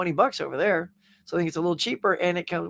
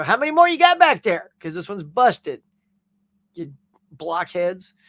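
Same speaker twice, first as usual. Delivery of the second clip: mock irate customer; 4 dB louder than usual. Customer complaining to store staff about dented case, mock irate. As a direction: call out to the stockroom in mock outrage.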